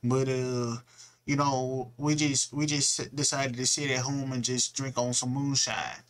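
put-on lightly done Southern country accent. Narrator mocking Southerners with a mild Southern country accent. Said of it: "good old country accent".

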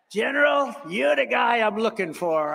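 high, loud excited cry; delighted shout. Retold or imitated. Greeting General Kane on the stairs, excited shout.

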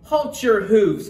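elf's cry. A narrator's reading. Elf stopping a fake reindeer, loud slow cry. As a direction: call a halt, high and drawn out. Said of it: "cried an elf".

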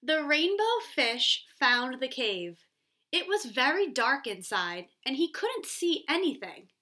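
put-on expressive read-aloud for young kids; storybook reading. A narrator's reading. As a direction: read the story to children, a little animated. Teacher reads storybook aloud.

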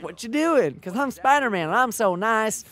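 playful mock southern Spider-Man; southern accent. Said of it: "Spider-Man has kind of a southern accent".

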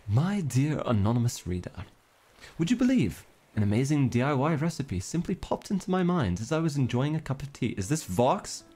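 lightly grand, mannered letter voice; a touch of theatrical formality; formal letter reading. Acted. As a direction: read it out like a florid old-fashioned correspondent. Reads a formal bottle letter.

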